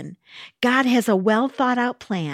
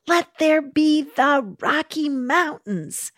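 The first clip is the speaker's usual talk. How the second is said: slow, higher called-out command; mock yell across the ages; 5 semitones higher than usual. God calling to his son, a slow mock yell. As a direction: call it out grandly, stretched. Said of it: "yelled across the ages".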